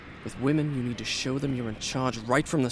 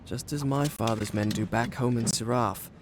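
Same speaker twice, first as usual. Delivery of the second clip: story narration. A narrator's reading. Prince narrates his tale.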